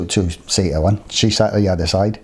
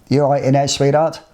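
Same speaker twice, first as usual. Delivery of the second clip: higher-pitched call to the next room; calling through; 5 semitones higher than usual. Retold or imitated. Checking on the coughing girl from the bedroom, calling through. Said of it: "So I shouted through".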